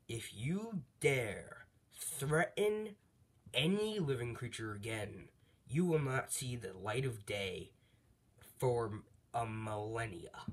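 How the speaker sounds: slow, drawn-out divine warning; God laying down a threat, word by word. Retold or imitated. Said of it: "we hear the voice of almighty".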